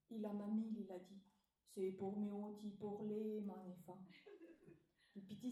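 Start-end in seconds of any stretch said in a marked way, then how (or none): 1.7-4.1 slow, big wolf-grandma voice; hammed-up fake grandmother, slow. Wolf disguised as grandmother answering the girl, slow big voice. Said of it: "Avec une grosse voix".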